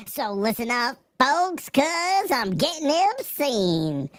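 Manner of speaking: a hammed-up cranky vegetable newscaster; angry turnip voice. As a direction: streamer improvising an angry turnip giving the news. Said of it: "You can't do a turn-up voice?".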